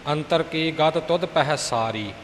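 unstressed, loose ਸਾਰੀ; soft ਸਾਰੀ. Shown as a demonstration. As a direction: model line with ਸਾਰੀ said lightly. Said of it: "ਸਾਰੀ ਪੋਲਾ ਬੋਲਣਾ ਜੀ".

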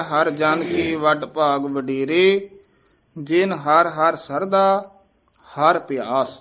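slow, with a stop after ਸਰਦਾ; slow recitation pausing at ਸਰਦਾ; slight stop at ਸਰਦਾ. Shown as a demonstration. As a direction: halt briefly at ਸਰਦਾ. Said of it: "ਸਰਦਾ ਤੇ ਠਮਕ ਲਾਉਣੀ ਹੈ".

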